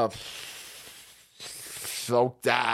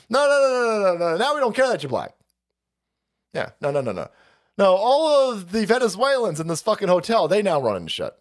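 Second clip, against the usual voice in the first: mock official; 3 semitones higher than usual. Mocking officials turning away the black man, sneering. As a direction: sneer it like a smug bureaucrat.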